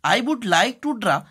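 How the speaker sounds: would stretched out, slow dictation; teacher dictating the letter slowly; stress on would. Shown as a demonstration. Teacher to class, dictating slowly word by word.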